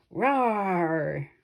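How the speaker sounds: lion's roar tacked on at the end; a throaty lion roar to finish; added roar. Acted. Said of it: "he added".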